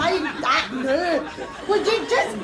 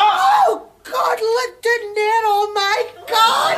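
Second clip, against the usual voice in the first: higher, slow alarmed cry; panicked cry; 6 semitones higher, slower than usual. Acted. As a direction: call out in fright, pointing. Mother panics pointing at rat.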